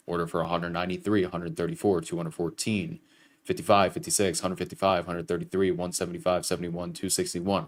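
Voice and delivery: rattling off numbers quickly; auctioneer. Real, not acted. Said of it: "Sound like a goddamn auctioneer".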